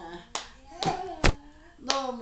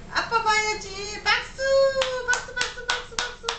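squeaky praising a dog; 9 semitones higher, 5 dB louder than usual. Real, not acted. Dad urging baby to clap.

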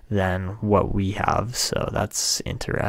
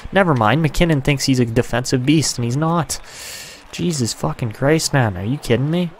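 frustrated rant; 4 semitones higher than usual. Real, not acted. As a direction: chew out the useless player. Ranting at his defenseman.

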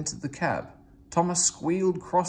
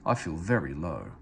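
mild pathetic; 7 semitones lower than usual. A narrator's reading. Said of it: "Gordon went on pathetically".

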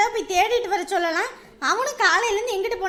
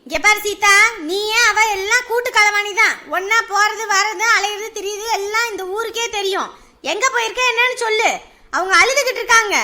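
loud stern scolding; 6 dB louder than usual. Acted. Mother scolding her daughter for hiding things, loud scolding. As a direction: lay into her, demanding.

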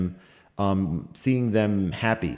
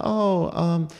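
put-on Southern accent; 10 semitones higher than usual. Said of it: "I, I can't do the accent".

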